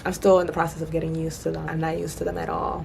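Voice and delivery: talking with new braces; lisping around fresh braces. Real, not acted. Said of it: "I just got my braces done".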